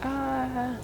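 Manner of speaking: a short, high, half-hearted mock scream. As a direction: squeak out a token scream. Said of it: "did a screaming voice".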